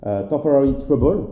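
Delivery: English read out slowly with a strong French accent; lent, accent français marqué sur l'anglais. Shown as a demonstration. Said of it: "je pense que tu kiffes mon accent".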